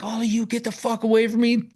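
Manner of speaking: high put-on threat; hammed-up high-voiced warning; imitated warning. Woman with the grabbed gun warning people off, imitated high.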